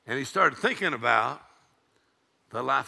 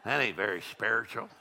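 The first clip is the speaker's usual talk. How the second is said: lower, softer mimicry of the overly spiritual; mock pious; 5 semitones lower, 4 dB quieter than usual. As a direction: lightly imitate a disapproving churchgoer. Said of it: "they act so spiritual".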